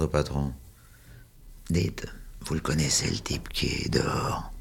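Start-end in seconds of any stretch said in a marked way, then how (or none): 1.7-4.5 hushed whisper to the owner; whispered aside behind the hand; secret whisper. Acted. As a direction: lean in and whisper the question. Asking the owner discreetly.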